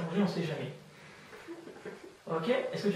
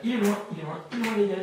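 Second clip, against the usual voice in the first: raised, repetitive hypnotist push; insistent suggestion; 3 semitones higher, 4 dB louder, faster than usual. Real, not acted. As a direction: chant it forcefully over their attempt. Hypnotist pushes the number away. (répétition pressante, voix haussée)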